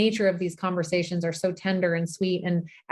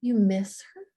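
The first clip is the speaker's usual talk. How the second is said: put-on toddler voice; 3 semitones higher, 3 dB quieter, slower than usual. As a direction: answer simply like a small child. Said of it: "She said".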